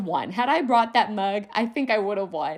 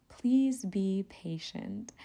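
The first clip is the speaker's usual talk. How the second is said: softly and slowly read the polite sticker; gentle, drawn-out plea; 6 dB quieter, much slower than usual. Retold or imitated. Reading the sticker behind the car, soft and slow.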